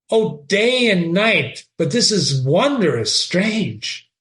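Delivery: reading Shakespeare aloud with feeling; dramatic reading. Acted. Teacher reading Horatio to the class, dramatic reading. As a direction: give Horatio's line a lively read.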